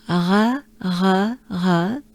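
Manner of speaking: R as a throaty French sound with a vowel. Shown as a demonstration. Teacher drilling the sound, French R. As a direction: repeat R the French way, evenly spaced. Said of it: "It sounds like R".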